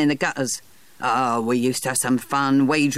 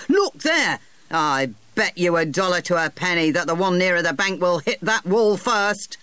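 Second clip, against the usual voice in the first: 1 excited cry; 3 semitones higher than usual. A narrator's reading. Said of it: "he cried, pointing".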